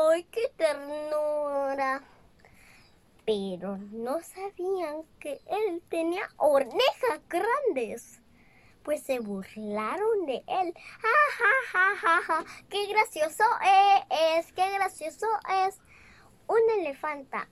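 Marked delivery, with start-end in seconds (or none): 0.1-2.0 tender coo. Acted. Crowd coos over the baby elephant. 10.7-15.8 high, loud mocking ha-ha; jeering laugh at the big-eared baby; mocking laughter. Others mock Dumbo's ears.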